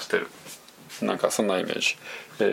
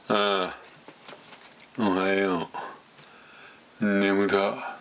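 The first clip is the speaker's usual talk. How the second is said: sleepy lazy voice; 2 semitones lower, much slower than usual. Shown as a demonstration. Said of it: "こんな感じがええのかもしれませんね".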